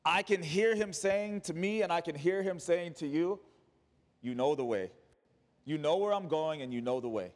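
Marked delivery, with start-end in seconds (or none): 4.2-7.3 lower, settled and assured; calm reassurance. Acted. Jesus saying to you that you know the way, reassuring.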